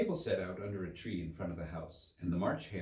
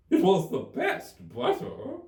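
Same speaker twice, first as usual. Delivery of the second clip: meek; 9 dB louder, slower than usual. A narrator's reading. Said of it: "meekly replied".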